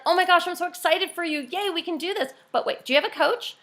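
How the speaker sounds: demoing an enthusiastic reply to a friend; excited gush. Shown as a demonstration. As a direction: gush with joy for them, then slip in the question.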